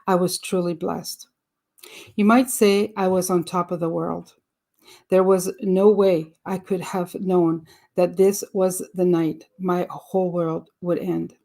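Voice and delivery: measured, slightly firmer reading voice; book read-aloud. Acted. Reader sharing an author's life story with listeners, read-aloud narration. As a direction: read the memoir aloud clearly and evenly.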